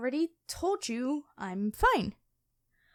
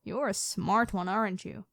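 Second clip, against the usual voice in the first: lightly voiced dragon queen. Dragon queen toying with her captured hunter, calm and lightly menacing. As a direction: purr like a predator who has already won. Dragon reveals herself to knight.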